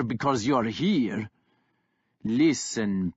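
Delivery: lightly voiced brutal warlord; mocking warlord. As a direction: sneer down at the pup. Kjartan taunts Guthred.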